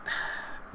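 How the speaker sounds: soft sigh; weary sigh. Real, not acted. Gamer seeing the match slip away, resigned sigh. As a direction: let out a quiet, breathy sigh.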